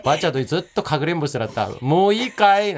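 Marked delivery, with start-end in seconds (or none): 1.8-2.7 playing hide and seek. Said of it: "なんて".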